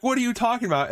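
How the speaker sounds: high-pitched imitation of a baffled friend; mock bewildered friend. Friend questioning the panicking woman, mock bewilderment. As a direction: throw it back high, hammed-up.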